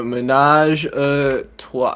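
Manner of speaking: "ménage à trois" drawn out slowly, word by word; tentative pronunciation. Real, not acted. Friend attempting "ménage à trois" from the screen, tentative slow pronunciation. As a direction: sound out "ménage à trois" slowly, unsure of the French. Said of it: "am I saying this right".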